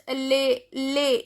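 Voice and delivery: "le" said as "lay"; "le" with no S sound; silent final S. Shown as a demonstration. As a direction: say "le" ending on the vowel. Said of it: "S is not pronounced".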